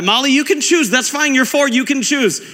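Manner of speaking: put-on high, light reassurance to a small child; indulgent parent.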